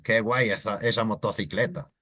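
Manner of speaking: Castilian Spanish accent; Spain Spanish accent. Shown as a demonstration. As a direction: say it like someone from Spain. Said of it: "In Spanish accent".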